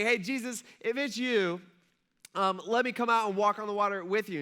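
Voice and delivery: half-yelled call to someone at a distance; yelling out. Retold or imitated. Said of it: "Peter yells out".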